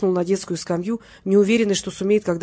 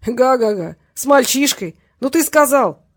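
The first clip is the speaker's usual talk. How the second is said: louder, higher guffawing scoff; laughing disbelief; 5 semitones higher, 7 dB louder, slower than usual. A narrator's reading. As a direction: laugh it off, big and amused. Petrenko laughs at Valera.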